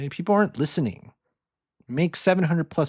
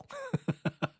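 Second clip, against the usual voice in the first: breathy whispered laugh; 7 dB quieter than usual. Real, not acted. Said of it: "I'm just kidding".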